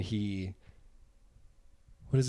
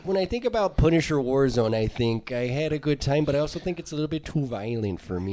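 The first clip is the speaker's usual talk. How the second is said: mock Canadian accent; 3 semitones higher than usual. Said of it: "in a Canadian accent".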